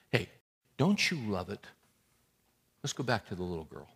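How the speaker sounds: ordinary talk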